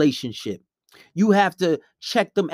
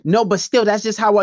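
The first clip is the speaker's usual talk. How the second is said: protesting; 3 semitones higher, 5 dB louder than usual. Acted. Girlfriend arguing back in acted quarrel.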